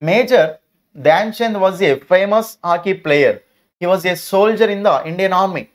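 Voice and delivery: each word spaced out, very slow; slow dictation reading. Acted. Teacher reading textbook sentences to pupils, very slow and deliberate. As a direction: read it out slowly so children follow.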